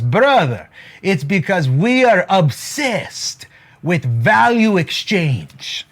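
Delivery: slow imitated Jewish accent, drawn out. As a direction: put on a Jewish accent, stretching the key words. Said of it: "That's my Jewish accent".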